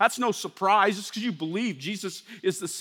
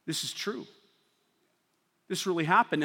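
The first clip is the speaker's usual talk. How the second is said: much softer, hushed awe; stricken realization; 6 semitones lower, 8 dB quieter than usual. Acted. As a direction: breathe it out in shock. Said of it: "They were like".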